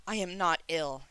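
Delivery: "I am not ill" with every word firmly hit; emphasis on each word. A narrator's reading. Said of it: "putting emphasis on each word".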